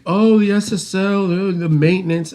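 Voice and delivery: high-pitched mock moan; mock complaining. Owner mimics people griping about console upkeep, mock complaining. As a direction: imitate people fretting with exaggerated woe.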